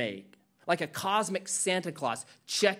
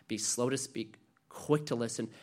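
soft verse; 6 semitones lower, 6 dB quieter than usual. Shown as a demonstration. Repeats James verse.

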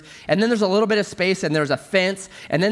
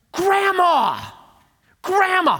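put-on much higher, louder little girl's call; child calling out; 4 dB louder, much slower than usual. Granddaughter calling grandma ten feet away, high and loud. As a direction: call across to wake her up. Girl calls sleeping grandma.

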